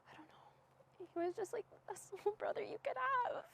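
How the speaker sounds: holding back tears, voice giving way; real grief breaking into the words; choked up. Real, not acted. Sister remembering her little brother, choked up. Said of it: "That's emotional".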